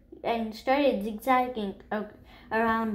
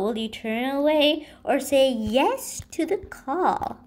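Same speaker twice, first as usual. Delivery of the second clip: a lightly lilting poem reading; poem recital; 3 semitones higher than usual. A narrator's reading. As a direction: recite the mother's poem gently. Reads remembered poem.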